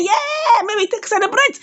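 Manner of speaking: high-pitched retold cheer; mock jubilation. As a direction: act out gleeful celebrating, voice shooting up. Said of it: "He dey happy".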